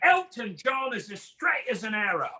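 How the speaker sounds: mock British accent, full authority. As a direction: assert it like a trusted Brit. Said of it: "their accent makes them sound like they know everything".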